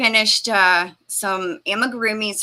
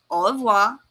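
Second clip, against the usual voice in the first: French word. Shown as a demonstration.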